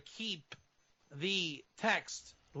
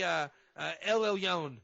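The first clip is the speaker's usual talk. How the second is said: usual speaking voice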